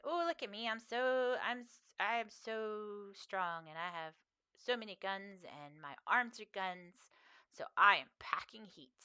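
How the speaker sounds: lightly cutesy mock boast; drawn-out "so strong", playful imitation; riff on Griffin. Streamer retelling her Hitman gun-arms joke, lightly mock-boastful. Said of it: "did a little riff on that".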